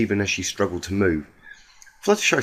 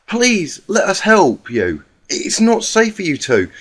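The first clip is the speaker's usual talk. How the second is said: higher, timid voice of a gentle pony; gentle Fluttershy; 9 semitones higher, 5 dB louder than usual. Acted.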